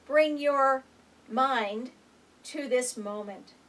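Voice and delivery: gentle mindful guidance; guided meditation. Acted. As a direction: ease them into the present moment. Opens a guided breathing moment.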